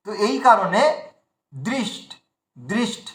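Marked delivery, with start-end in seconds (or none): 1.5-3.1 দৃষ্ট alone, cut off after the consonants; isolated cluster. Shown as a demonstration. Teacher isolates the first part for learners, দৃষ্ট ending on bare consonants. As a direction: stop দৃষ্ট with no vowel on the end. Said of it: "দুটোকেই আমরা side করে দিলাম".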